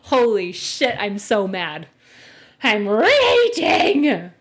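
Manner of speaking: slow, loud mock-raging whine; mock triggered host. Mocking the host's smug look, mock rage. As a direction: ham up being triggered. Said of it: "I know he's like".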